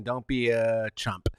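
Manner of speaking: normal talking voice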